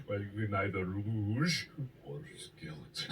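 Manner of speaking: slow, badly faked Swiss accent; botched Swiss accent. Host playing a Swiss local offering sports, botched Swiss accent. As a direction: attempt Swiss, miss the accent entirely. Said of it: "This is not a Swiss accent".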